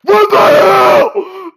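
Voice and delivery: high, drawn-out yell of disbelief; alarmed yell. Real, not acted. Player chased by a polar bear, alarmed yell. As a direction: cry out, stretched by shock.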